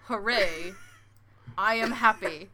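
even machine gun syllables; monotone robot reciting. Pretend. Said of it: "You can't even do the bit".

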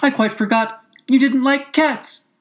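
high, worried apology; apologetic cry. A narrator's reading. Alice apologises to the offended mouse, high anxious cry. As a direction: apologise in a high voice, drawing out the end. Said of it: "cried Alice hastily, afraid that she had hurt".

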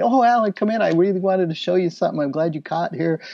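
glad and quick, pitched high; eager art director. Retold or imitated. Art director Andy welcomes Alan in, quick and eager. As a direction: rush it out, eager to show something.

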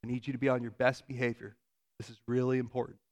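imitated Southern mother, measured and firm; thick Southern accent, lowering into earnest warning; Southern mom accent. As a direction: lecture a child like a Southern mom. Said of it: "has a very thick Southern accent".

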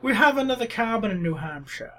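snooty summer-home owner, lightly voiced; a hint of a snob bragging; uppity New England voice. Showing friends his rich vacation-owner voice, mildly snooty. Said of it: "uppity, uh, New England vacation home owner voice".

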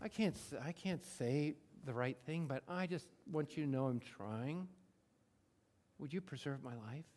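soft, humble plea fading away; quiet honest prayer. Retold or imitated. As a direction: confess it softly to God. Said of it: "You just said".

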